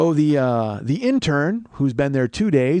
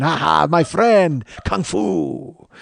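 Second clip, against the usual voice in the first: imitated laughing driver; 2 semitones higher, 3 dB louder, much slower than usual. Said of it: "he's just laughing".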